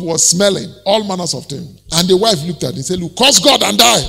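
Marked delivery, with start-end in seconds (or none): 3.0-4.0 raised, exasperated mock wife's voice; exasperated urging. Wife tells suffering Job to give up, exasperated. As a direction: urge it impatiently, a bit louder.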